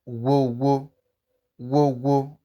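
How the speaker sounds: "wo" with a guttural gh rasp before the w; throaty gh sound. Shown as a demonstration. Teacher showing learners an example word, "wo" with a throaty gh. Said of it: "You can hear the wo sound as I'm pronouncing it".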